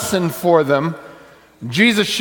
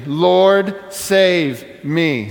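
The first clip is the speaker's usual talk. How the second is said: plea said aloud; much slower than usual. Shown as a demonstration. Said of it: "Say it with me".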